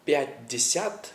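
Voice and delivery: Пятьдесят slowly with every syllable sounded; full careful form. Shown as a demonstration. Teacher showing the full form people avoid. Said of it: "not very typical things to say".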